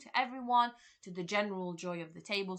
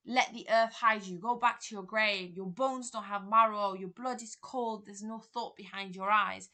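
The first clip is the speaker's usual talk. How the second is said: lightly raised retelling; 2 semitones higher, 6 dB louder than usual. Retold or imitated. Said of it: "he's shouting in front of everyone".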